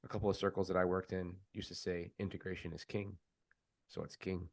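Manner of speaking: retold in a mildly solemn tone; measured, mock-serious retelling; all serious. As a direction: quote him gravely, understated. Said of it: "all serious".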